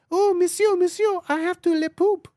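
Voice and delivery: squeaky mock French dog, pleading; over-the-top French accent for a talking poodle. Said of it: "it has, like, a French accent".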